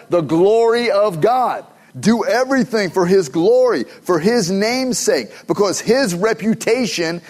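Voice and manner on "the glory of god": drawn out, slow and raised; slow preacher emphasis; slow emphatic completion. Shown as a demonstration. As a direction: spell it out slowly for the church. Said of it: "finish it for me".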